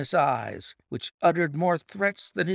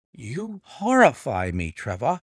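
a touch of shock at the news; cried out; 4 dB louder than usual. Acted. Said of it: "I cried".

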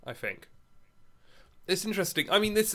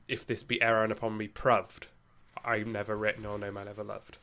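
Shakespeare's original pronunciation, West Country lilt; 4 dB quieter than usual. Shown as a demonstration. Podcast host demonstrates how the couplet sounded in Shakespeare's time, in a light West Country original pronunciation. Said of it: "it becomes".

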